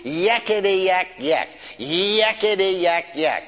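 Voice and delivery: mildly hammed-up demon yakking, drawn out; shrill demon jabber. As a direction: imitate a yammering demon, stretching each burst. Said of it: "holler in a real shrill voice".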